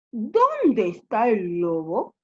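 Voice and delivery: slow, stretched-out storybook question; villagers asking. Acted. Villagers arrive looking for the wolf, questioning. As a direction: ask it as the searching villagers.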